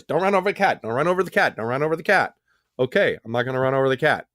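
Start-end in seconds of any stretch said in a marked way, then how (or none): 0.0-2.3 nagging wife. Retold or imitated. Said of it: "my wife's just tearing me up".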